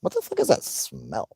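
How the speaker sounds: high, shocked squeal of disbelief; retold shock. Retelling walking in on the smell, a high shocked squeal. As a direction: shriek it like the smell just hit you. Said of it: "and I'm like".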